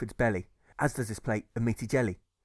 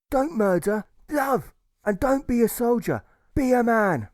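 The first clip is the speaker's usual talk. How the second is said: building from firm to a full ringing shout, higher and louder; rally the crowd, climbing to a roar; rousing oration; 8 semitones higher, 4 dB louder than usual. Acted. Alfred urging soldiers not to fight, rising to a passionate shout.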